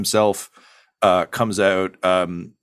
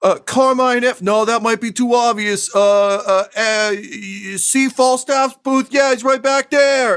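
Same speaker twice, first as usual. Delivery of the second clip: very high, loud chef blurting a secret; no low volume; 4 dB louder, slower than usual. Acted. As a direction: announce it to the whole room, no volume control. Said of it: "there's no low volume".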